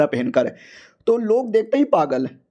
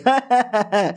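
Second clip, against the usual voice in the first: higher-pitched teasing laugh; acted chuckle; 4 semitones higher than usual. The cat laughs at the broke hero, acted higher-pitched chuckle. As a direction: laugh it off cheekily.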